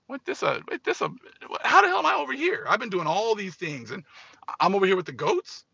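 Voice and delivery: a hammed-up outraged squeal; mock outrage. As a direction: play the indignant goat raging at his spot.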